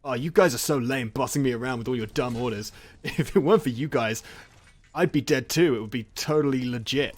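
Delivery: loud, mock-defiant whining; defiant complaining. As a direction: play a blameless guy griping at orders. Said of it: "acts like he's not in the wrong".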